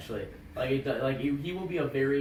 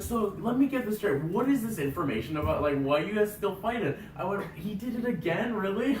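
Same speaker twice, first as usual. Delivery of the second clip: can't believe he did it again; incredulous; 6 semitones higher than usual. Retold or imitated. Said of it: "he's like".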